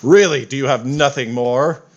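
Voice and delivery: lightly voiced pompous war god; boastful god voice. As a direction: announce yourself as an unbeatable god. Fitander boasts again.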